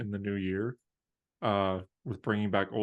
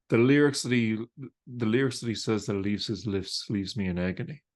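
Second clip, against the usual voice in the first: light Irish accent, mock poetic; dramatic lines in an Irish accent. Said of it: "that was an Irish accent".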